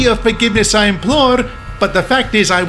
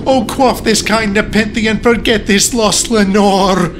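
high-pitched impassioned cry; theatrical, anguished plea; 11 semitones higher than usual. A narrator's reading. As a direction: declaim it at the raven, voice raised high. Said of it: "I cried".

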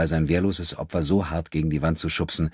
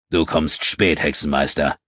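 growl; 2 semitones lower than usual. A narrator's reading. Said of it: "knurrte er".

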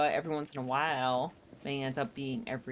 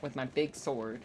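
righteous paladin declaration; 4 dB quieter than usual. Pretend. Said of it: "Ready for my voice?".

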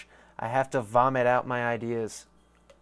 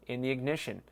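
ad read; 6 dB quieter, faster than usual. Acted. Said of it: "That was a shit ad".

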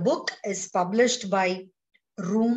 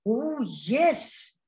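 happily; 3 semitones higher than usual. Acted. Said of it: "said little bee happily".

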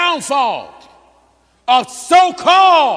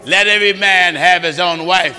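EVERY leaned on, louder than the reader; louder preacher echo of the verse; emphatic echo; 5 semitones lower, 3 dB louder than usual. Acted. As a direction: repeat the verse back, hitting every. Preacher echoes scripture reader.

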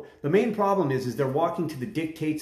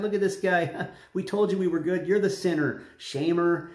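raised, laughing taunt; mocking laughter; 3 semitones higher than usual. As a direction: scoff at the prophet with a laugh. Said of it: "they're like".

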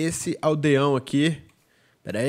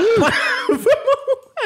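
a very high, loud shout of laughter; 4 dB louder than usual. Real, not acted. Gamer seeing a block glitch, loud high shouted laugh. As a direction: explode into laughter.

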